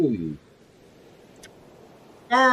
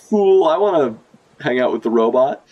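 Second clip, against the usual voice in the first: put-on childish excitement; 4 semitones higher than usual. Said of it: "they're like".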